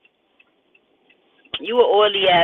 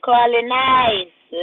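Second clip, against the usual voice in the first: "Calling Ice" stretched very slow; slow amused "Calling Ice"; drawn out; 2 semitones higher, much slower than usual. Shown as a demonstration. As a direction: savour each word of "Calling Ice". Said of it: "repeated, drawn out".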